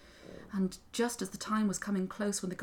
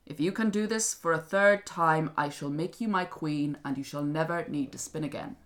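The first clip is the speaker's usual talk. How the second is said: king's solemn vow; 4 dB louder than usual. Acted. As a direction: swear it deliberately as a ruler. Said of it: "king came in".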